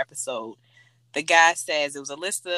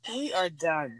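laughing; slower than usual. Real, not acted. Laughing at cheesy pickup line.

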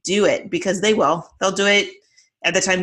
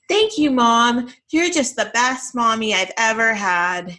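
a hint of a gushing four-year-old, slower and a bit higher; lightly voiced little girl; 4 semitones higher, slower than usual. Mom imitating her daughter's over-the-top thanks, lightly childlike.

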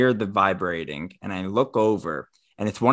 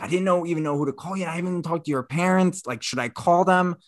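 higher, rapid mock fluster; frazzled; 7 semitones higher, faster than usual. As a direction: rattle it off, imitating a flustered friend. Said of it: "sounded frazzled".

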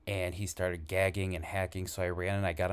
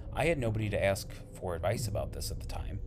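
whispering. Real, not acted. Whispered aside about no advice.

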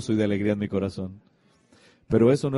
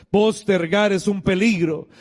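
slow, raised-pitch preacher's proclamation; emphatic warning; 6 semitones higher, 4 dB louder, slower than usual. Real, not acted. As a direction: drive the warning home to the congregation. Same warning repeated as forceful preaching.

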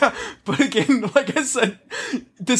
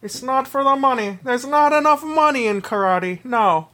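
silky polite villain; 2 semitones higher than usual. Acted. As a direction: purr it like a gloating Bond villain. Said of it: "that's just how he talks now too".

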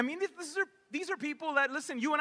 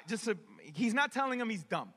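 ordinary talk

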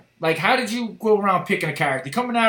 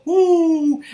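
high laughing woo; a laughing imitation of the famous woo; Ric Flair woo; 9 semitones higher, 5 dB louder than usual. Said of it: "he would go".

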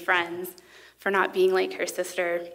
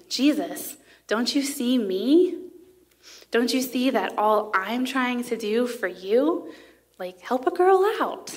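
acted exasperated plea, rising higher toward the end; upset pleading; 3 semitones higher than usual. Frazzled Martha appeals to Jesus for help, upset and pleading. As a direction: plead like an overlooked hostess, building to a high peak. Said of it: "You can almost hear her saying".

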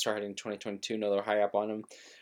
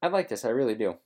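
excited; 5 dB louder than usual. Real, not acted. Excited reaction to hiring news.

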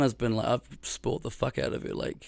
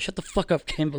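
higher-pitched incredulous outburst; playful re-enacted shock; retold disbelief; 4 semitones higher, much faster than usual. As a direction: react as if the news can't be true. Acts out disbelief at good news.

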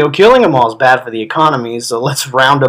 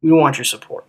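angry rant; 9 semitones higher, faster than usual. Real, not acted. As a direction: yell it at them, disgusted. Angry rant at swastika wearers.

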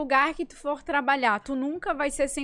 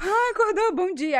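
mock cheerful boyfriend; 5 semitones higher than usual.

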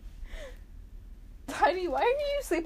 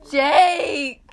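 loud, raised cry of the name; exasperated yell; 4 semitones higher, 8 dB louder than usual. Real, not acted. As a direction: yell at the intruder. Sibling intrudes, called out angrily.

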